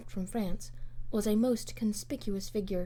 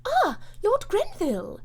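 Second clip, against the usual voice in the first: high, loud, drawn-out hail; hearty greeting; 12 semitones higher, 6 dB louder than usual. Acted. Lady Portarles greets the arriving minister, hearty and high. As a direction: call him in gladly.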